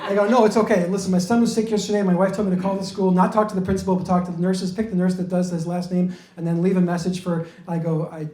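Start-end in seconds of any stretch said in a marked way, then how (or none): 0.3-7.5 rushed, anxious explanation; flustered explaining. Retold or imitated. Explaining himself to suspicious cops. 8.1-8.3 low, soft, defeated mumble; sheepish giving up. Retold or imitated. Gives up explaining to cops.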